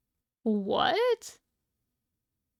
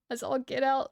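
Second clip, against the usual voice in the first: laughing; 3 semitones higher than usual. Real, not acted. Rereads a phrase while laughing.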